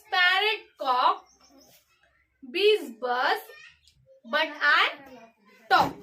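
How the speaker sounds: rhythmic sing-song reading, pausing after each line; reading a poem aloud. Shown as a demonstration. Teacher reading the poem aloud to the class. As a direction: read it like a children's rhyme, one pair of animals at a time.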